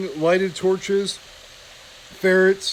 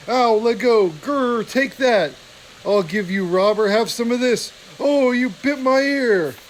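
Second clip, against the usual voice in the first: higher, louder pained fighting shouts; brawling yelps; 5 semitones higher, 4 dB louder than usual. Acted. Weasel guard bitten in the brawl, pained high yelping shout. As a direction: howl as you wrestle on the floor.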